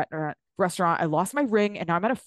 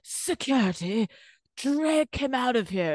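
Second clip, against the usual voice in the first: mock Meredith; 5 semitones higher, slower than usual. Mocking Meredith at restaurant.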